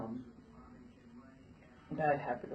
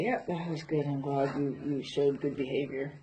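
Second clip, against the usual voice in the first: praising the horse. Real, not acted. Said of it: "So I'm going to just say".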